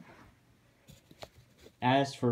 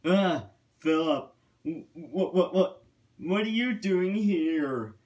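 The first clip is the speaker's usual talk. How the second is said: higher, stammering alarm; startled stammer; 5 semitones higher than usual. A narrator's reading. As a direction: act caught off guard, tripping over the words. Startled Thomas confronted by angry Philip.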